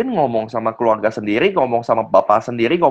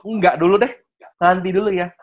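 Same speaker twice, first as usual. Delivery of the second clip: reflexive refusal; 4 semitones higher than usual. Retold or imitated. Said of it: "Sebelum tahu produk".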